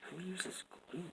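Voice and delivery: high, put-on mocking voice. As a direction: tease in a silly high voice.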